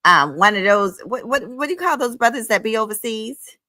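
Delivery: high prissy mimic of the woman; mocking a rival with a high fake voice; mock high imitation. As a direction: lift the voice way up to mock her. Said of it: "She got up there and told".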